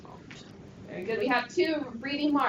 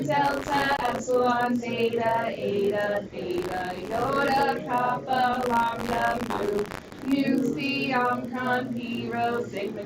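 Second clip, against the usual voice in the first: with conviction; slower than usual. Shown as a demonstration. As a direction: lead the class chant with conviction. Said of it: "With conviction".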